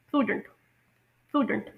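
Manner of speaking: प्रूडेंट with a long oo, stressed first syllable; British pronunciation. Shown as a demonstration. Teacher showing learners the word, British pronunciation of प्रूडेंट. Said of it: "इसकी British, अ, pronunciation होगी".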